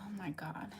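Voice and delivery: breathless whispered oh my God; barely voiced, stunned; whispered disbelief; shocked whisper. Real, not acted. Reacting to friends lost in hurricane.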